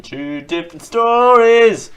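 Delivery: high, loud mock gasp of surprise; mock astonishment. Host mocking the conflicting White House stories, in mock astonishment. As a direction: exclaim it like a gotcha.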